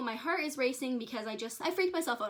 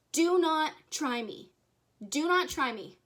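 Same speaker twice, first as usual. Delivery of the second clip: slow, louder warning, said twice; firm warning; 3 semitones higher, 4 dB louder, slower than usual. Real, not acted. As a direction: lay down the law to the unseen rider. Warning the spirit in her car.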